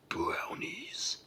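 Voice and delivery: slow, drawn-out giant voice; thundering giant. A narrator's reading. Giant discovers the tiny brownies, thundering in wonder. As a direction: boom it out like near thunder. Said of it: "in a voice like very near thunder".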